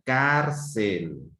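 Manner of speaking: "Cárcel" drawn out, weight on the first syllable CÁR; stress on CÁR. Shown as a demonstration. Teacher showing pupils the strongest syllable, stress on CÁR. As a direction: lean on CÁR in "Cárcel", let CEL fall. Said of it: "sílaba de mayor intensidad".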